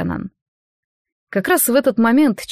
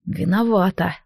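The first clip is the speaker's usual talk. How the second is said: lazy drawl. Acted. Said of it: "лениво".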